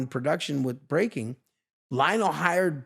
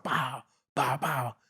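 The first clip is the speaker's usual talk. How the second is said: robotic beatbox sound; 3 semitones lower, 5 dB quieter, slower than usual. Shown as a demonstration. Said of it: "I'll make sound".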